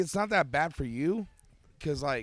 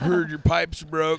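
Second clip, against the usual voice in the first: slow porn plumber; 6 dB louder, slower than usual. Pretend.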